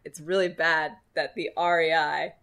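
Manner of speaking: laughing through the words, slow; giggling while confessing. Retold or imitated. Retold self, laughing.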